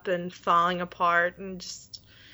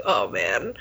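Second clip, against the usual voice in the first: hushed whisper; 12 semitones lower than usual. Retold or imitated. Claire seeing Jamie's ghost at the gate, whispered. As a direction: breathe it out as an unvoiced, lower whisper.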